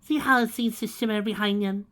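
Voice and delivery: high, loud posh art-lover; hammed-up upper-class lilt; cultured tones. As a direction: play the snooty connoisseur. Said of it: "in cultured tones".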